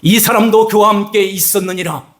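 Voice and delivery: put-on servant girl accusing. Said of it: "이르되".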